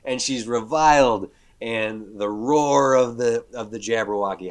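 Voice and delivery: hoarse strained voice after inhaling dust; rough throat from candy dust; raspy voice. Real, not acted. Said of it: "that's your voice now".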